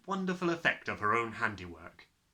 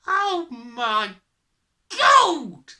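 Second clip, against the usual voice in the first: loud horror climbing to a high yell; 14 semitones higher, 13 dB louder, much slower than usual. A narrator's reading. Father seeing himself in the mirror, yelling. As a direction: build to a yell on the last word. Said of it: "yelled the father".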